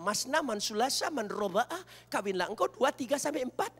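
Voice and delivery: a hint of chanted Quran recitation; reciting verse. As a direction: chant the verse lightly, rising. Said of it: "ada ayatnya".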